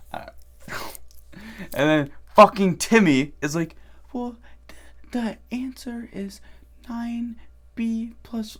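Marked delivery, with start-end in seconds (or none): 4.1-8.6 meek, timid, slow whisper, barely audible. Retelling a kid's answer when called on, imitating Timmy's timid voice. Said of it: "speak up".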